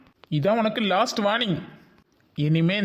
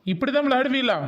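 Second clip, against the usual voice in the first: exasperated teacher, raised voice; stern scolding; 5 semitones higher than usual. Acted. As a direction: scold the prank.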